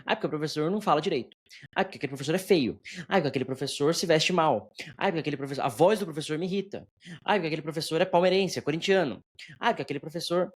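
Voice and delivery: a touch of mimicked whining; mock complaining. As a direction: reel off mock gripes, each restarting on the same note. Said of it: "o pessoal reclamando de professor".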